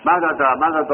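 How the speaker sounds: مدد spelled out slowly, each syllable clear; teacher modelling مدد for the class; sounding out مدد. Shown as a demonstration. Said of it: "مدد کرد".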